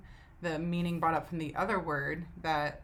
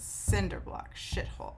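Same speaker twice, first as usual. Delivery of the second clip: "cinder block, shithole" stressed on CIN and SHIT; first-syllable stress; 3 semitones higher than usual. Shown as a demonstration. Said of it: "accent is on the first syllable of both of those words".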